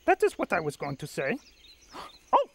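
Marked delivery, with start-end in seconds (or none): 1.9-2.5 gasp of surprise. Acted. Grover gasps at a find.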